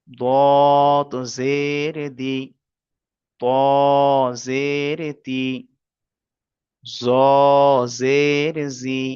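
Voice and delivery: slow, drawn-out recitation of Arabic letters; measured Quran-reading drill. Shown as a demonstration. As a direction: chant each letter and its vowel slowly for the class. Teacher drills Arabic letter sounds.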